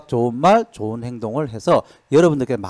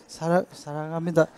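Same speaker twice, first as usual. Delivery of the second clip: shy and much softer, stumbling on 사랑; awkward stammered love line; 8 dB quieter than usual. Shown as a demonstration. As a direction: mumble it like an embarrassed spouse. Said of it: "못한다니까요". (쑥스러워 더듬으며 작게)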